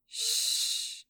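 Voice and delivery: unvoiced hushing shh; a man quieting a crying girl. A narrator's reading. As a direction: hush her softly.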